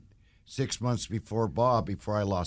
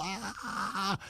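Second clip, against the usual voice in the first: soft, higher strained "ah"; stressed-out groan; 7 semitones higher, 7 dB quieter than usual. Retold or imitated. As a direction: imitate an overwhelmed groan, kept quiet. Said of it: "he was so stressed out".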